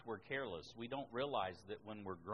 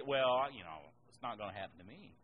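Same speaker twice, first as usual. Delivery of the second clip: careless shrug; 3 semitones lower than usual. Retold or imitated. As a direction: toss it off like nothing could touch you. Mimicking a careless believer.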